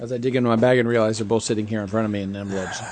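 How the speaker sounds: talking while chewing ice; ice in mouth. Real, not acted. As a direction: speak around a mouthful of ice. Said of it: "As I chew my ice into the mic".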